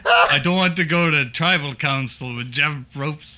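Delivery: badly faked Boston accent; muddled mock Boston accent. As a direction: attempt a Boston accent and miss. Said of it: "Boston, Mass".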